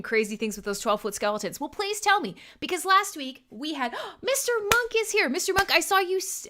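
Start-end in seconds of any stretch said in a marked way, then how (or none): 4.2-6.5 gasp, then high excited greeting; light up at a surprise arrival; high-pitched happy surprise; delighted surprise. Real, not acted. Spots a guest arriving mid-sentence.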